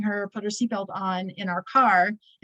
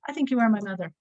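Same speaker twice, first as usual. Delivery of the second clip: casual, as if ordering coffee; matter-of-fact; faster than usual. Retold or imitated. Grandmother to granddaughter, imitated as matter-of-fact. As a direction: toss it off as an everyday remark. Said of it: "she just said it like, you know, I'll have coffee".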